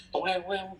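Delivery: springy "toweng-weng" sound effect; comic popping-out noise. Retold or imitated. Mimics head popping down.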